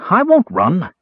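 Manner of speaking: high, pleading whine; a scared thief begging not to be hurt; whining thief. A narrator's reading. Frightened thief whines to his captor. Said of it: "the man whined".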